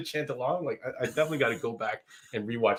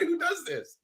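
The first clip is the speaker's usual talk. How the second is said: higher, incredulous squeak; as if nobody could believe it; mock disbelief; 6 dB quieter, slower than usual. Viewer reacting to Plainview swigging the drink, higher mock disbelief.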